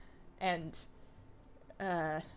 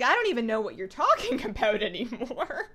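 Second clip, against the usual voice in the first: laughing in disbelief; 4 dB louder than usual. Retold or imitated. Mock reaction to Australian slang.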